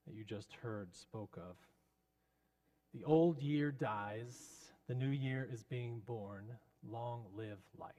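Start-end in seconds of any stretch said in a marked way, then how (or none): 2.9-7.9 solemn pulpit sermon. Retold or imitated. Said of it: "End of sermon".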